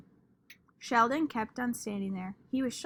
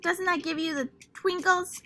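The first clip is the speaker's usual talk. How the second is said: gushing; 8 semitones higher, 4 dB louder than usual. Acted. Lucille gushing.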